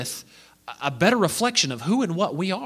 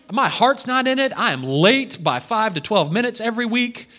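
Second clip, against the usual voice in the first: mock whiny prayer; 3 semitones higher than usual.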